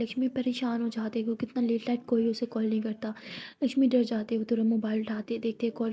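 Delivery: hushed, tense whisper; whispered narration. A narrator's reading. (डर भरी फुसफुसाहट)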